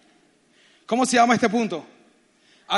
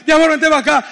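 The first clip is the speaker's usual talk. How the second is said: louder, higher retold call to come over; urgent calling out; 4 semitones higher, 6 dB louder, faster than usual. Husband calls wife to shelter, urgent raised call.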